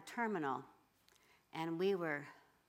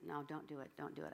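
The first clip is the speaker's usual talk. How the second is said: whispered warning; 2 semitones lower, 7 dB quieter than usual. Retold or imitated. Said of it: "I whispered, I said".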